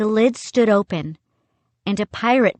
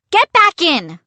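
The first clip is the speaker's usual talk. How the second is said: high, loud desperate order; frightened yell, voice jumping up; panicked cry; 10 semitones higher, 6 dB louder than usual. A narrator's reading. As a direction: cry it out urgently. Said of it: "I cried".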